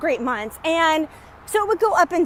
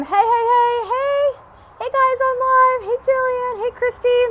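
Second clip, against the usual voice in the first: higher, sing-song hey to new arrivals; excited greeting; 9 semitones higher, 4 dB louder than usual. Real, not acted. Host greeting viewers joining the live stream, excited sing-song. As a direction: call out a bright hello to each name.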